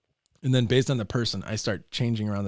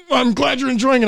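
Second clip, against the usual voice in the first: dry dad reply; 13 semitones higher, 12 dB louder than usual. Retold or imitated. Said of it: "the guy's just like".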